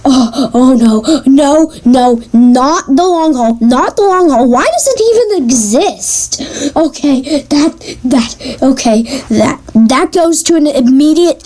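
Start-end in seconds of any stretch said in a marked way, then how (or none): 0.1-6.4 hammed-up wail of dread, rising at the end; theatrical dismay. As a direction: plead in mock despair. Dramatic dismay at hated book.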